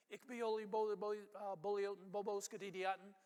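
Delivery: a hint of a hand-waving healer chanting; mock sorcerer mumbo jumbo; mock magic spell. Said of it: "some cute little phrase".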